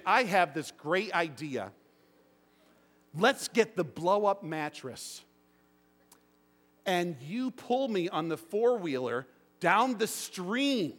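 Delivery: slow, mock-eager pitch of a silly plan; mock bright idea. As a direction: sell the crazy idea like it's genius. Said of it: "wake up in the morning and say".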